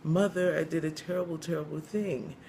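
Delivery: mock tearful. Pregnant young woman confessing to the church mother, mock tearful. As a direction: confess as if lightly crying. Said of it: "as she's crying".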